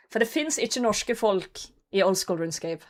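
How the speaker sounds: ordinary delivery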